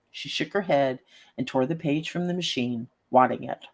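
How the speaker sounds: steady storyteller read; story narration. A narrator's reading. Reads story aloud.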